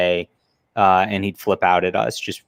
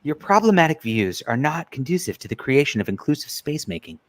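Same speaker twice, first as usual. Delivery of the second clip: mock jargon-speak, slightly higher, dropping at the end; Twitless doing the speak; 4 semitones higher than usual. Host imitates how he'd speak to them, mock jargon voice. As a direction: parody someone reciting activist jargon. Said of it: "is doing the speak".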